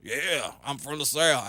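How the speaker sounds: drawled Southern guy impression; showing off a Southern guy voice; Southern accent. Shown as a demonstration. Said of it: "I do really good Southern guys".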